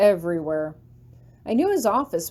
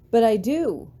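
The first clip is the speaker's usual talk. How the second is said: earnest; 3 semitones higher, 4 dB louder than usual. A narrator's reading. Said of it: "I tell him earnestly".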